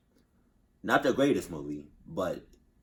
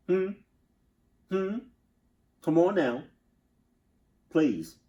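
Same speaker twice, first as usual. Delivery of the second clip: high-pitched voice; 10 semitones higher, 8 dB louder than usual. Acted. Quarrel with robot in voice.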